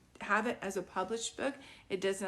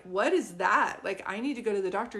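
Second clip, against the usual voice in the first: louder, incredulous mock skeptic; mock skeptical outsider; 5 dB louder than usual. Outsider scoffing at a family home remedy, mock incredulous. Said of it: "And they're like".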